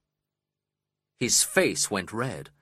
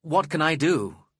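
higher-pitched plea; narrated pleading, pitched up; begging; 6 semitones higher, slower than usual. A narrator's reading. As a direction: beg for help in a raised voice. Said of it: "I begged".

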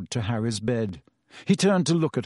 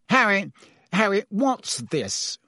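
agitated minister; 7 semitones higher, slower than usual. A narrator's reading. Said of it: "looking agitated".

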